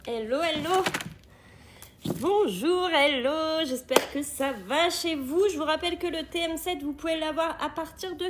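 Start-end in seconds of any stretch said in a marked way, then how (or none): 0.1-3.6 cheerful greeting. Real, not acted. Greeting viewers.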